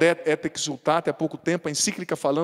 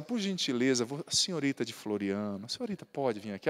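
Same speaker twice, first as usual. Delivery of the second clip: softer, lower, gentle courtesy; politely calling a girl over, soft and gentle; polite request; 6 semitones lower, 8 dB quieter than usual. Shown as a demonstration. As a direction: ask her over with exaggerated politeness. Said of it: "se eu chegar e falar assim".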